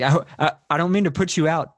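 mock-polite apology with an edge; passive-aggressively friendly. Diner fussing at a waiter about chicken, passive-aggressively friendly. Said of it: "passive aggressively friendly he is to the waiters".

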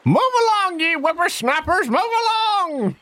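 put-on cranky old-timer shooing kids; old prospector. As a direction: shoo them off like a grumpy elder. Elderly Diana shoos teenagers.

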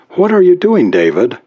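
a touch of sighing affection; warm loving wife. A narrator's reading. Wife asks over his shoulder, mildly warm and loving. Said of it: "warm, loving, sighing voice went on".

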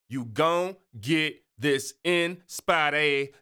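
slow, slurred "You gon' get this inspiration", dropped endings; slangy street drawl. Shown as a demonstration. Host to listeners, slow slangy "You gon'" drawl. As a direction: lean into the slang, stretch it out. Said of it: "so I just do the accent".

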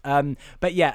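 normal talking voice

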